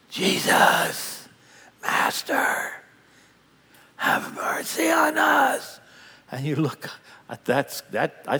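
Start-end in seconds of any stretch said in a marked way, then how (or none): 0.1-2.7 unvoiced, rasping call of a leper; whispered leper's plea. Preacher voicing lepers calling to Jesus, a rasping whisper. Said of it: "he goes". 4.0-5.8 a much higher, slow, shouted plea; desperate cry for mercy. Retold or imitated. Leper crying out from a distance to Jesus, slow high wail. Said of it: "he goes".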